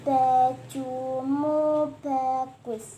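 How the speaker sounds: over enunciating. Shown as a demonstration. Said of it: "Coba diucapkan lagi".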